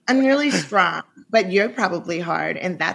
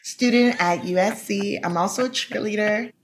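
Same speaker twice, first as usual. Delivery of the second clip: lightly voiced phone sex persona; a hint of the sultry operator. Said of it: "What was your persona?".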